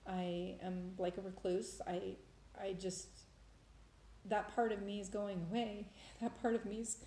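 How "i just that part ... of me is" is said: softly choked up, trailing off; emotional. Real, not acted. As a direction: falter softly, overcome by feeling. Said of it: "sorry, I'm so emotional".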